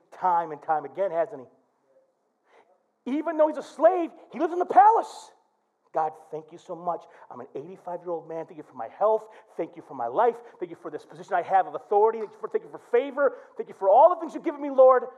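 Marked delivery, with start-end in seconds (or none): 5.9-15.1 rushed, low-starting thanksgiving; tumbling gratitude, faster and faster; grateful old Daniel. Acted. Daniel's grateful prayer voiced.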